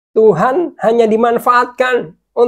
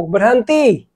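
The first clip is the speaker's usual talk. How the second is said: raised, louder command; firm stop; 2 semitones higher, 5 dB louder, slower than usual. Real, not acted. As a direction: cut it off sharply. Cuts off the demanding prayer.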